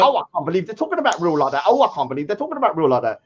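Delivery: fast, put-on whiny gossip; mock whiny outrage. Mocking his own old self as a gossip. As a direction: whine it out quickly like a gossip. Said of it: "I used to go".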